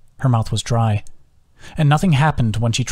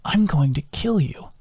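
hoarse; 5 semitones higher, 3 dB quieter than usual. Acted. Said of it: "it hurt to speak".

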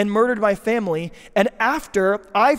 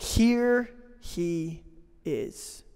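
hushed reveal; 2 semitones lower, 5 dB quieter, much slower than usual. Real, not acted. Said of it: "dramatic hushed declaration".

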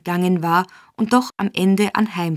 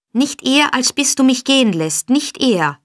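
high, louder, desperate shriek; 6 semitones higher, 4 dB louder than usual. A narrator's reading. Girl refuses to get up until released, shrieking. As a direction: shriek it in defiance, pitch up. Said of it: "kreischte Nancy".

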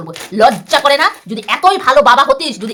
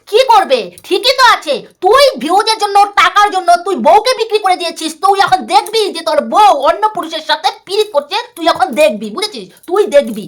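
higher, heated, jabbing words; angry berating; 5 semitones higher than usual. Real, not acted. Vlogger berating rival over his wife, heated and higher. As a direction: tear into him for selling out.

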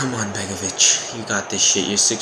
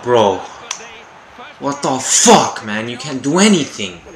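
real annoyed yell; frustrated shout; 5 dB louder than usual. Real, not acted. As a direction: vent at the game. Conceding a goal.

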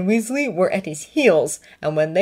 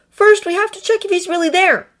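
higher, louder, insistent reasoning; reasoning Draco; 7 dB louder than usual. A narrator's reading. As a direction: talk sense into him. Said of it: "Draco reasoned".

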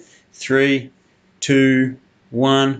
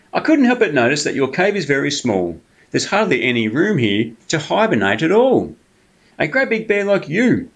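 higher, coaxing sly fox voice; 4 semitones higher than usual. Acted. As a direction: sweet-talk the bear like a cunning fox. Fox flatters Bear.

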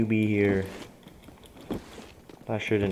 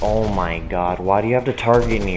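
angry; 5 dB louder than usual. Real, not acted. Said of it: "Sorry that I'm mad".

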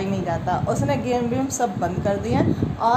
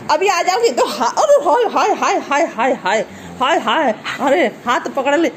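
ऊँची, ज़ोरदार हंसी भरी हाय हाय; खिंचते हुए हंसते चिल्लाओ; हंसते हुए चीखना; 3 semitones higher, 5 dB louder than usual. Real, not acted. कुत्ता खींच रहा, हंसी. (कुत्ते के खींचने पर ज़ोर से हंसते हुए चिल्लाना)

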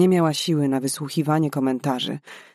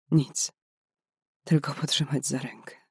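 whisper; 5 dB quieter than usual. Acted. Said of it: "szepnęła".

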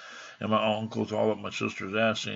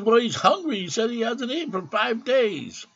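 brother answering; 14 semitones higher, 6 dB louder than usual. Retold or imitated. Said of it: "He goes".

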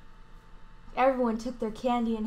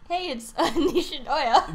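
guard voice; 4 semitones higher, 7 dB louder than usual. Acted. Security guard greets her.

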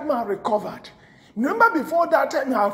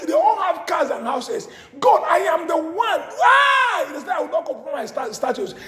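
lamenting shout; 3 semitones higher than usual. Acted. Voicing a believer's complaint to God.

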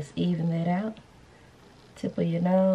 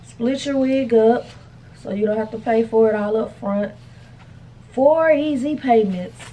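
promo hype; 4 semitones higher, 4 dB louder than usual. Real, not acted. Plugging the payment plan, louder promo hype. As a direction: sell it like an ad. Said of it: "ad pitch repeated".

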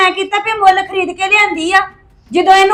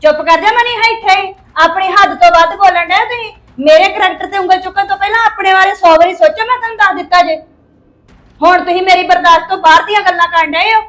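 angry; 3 semitones higher, 4 dB louder than usual. Acted. Wife quarrels with husband.

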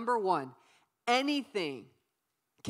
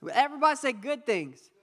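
louder, pushing the crowd to repeat "good things"; louder call to the crowd; 3 semitones higher, 6 dB louder than usual. Shown as a demonstration. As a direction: call it out again so they answer.

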